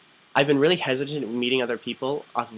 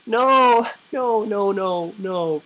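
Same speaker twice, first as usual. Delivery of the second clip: much higher, louder shrieking no's; panicked refusal; 10 semitones higher, 7 dB louder, much slower than usual. Retold or imitated. Begging a guy to stop sending pictures, high panicked shrieks. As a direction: recoil as if it's right in your face. Reacting to unwanted naked pictures.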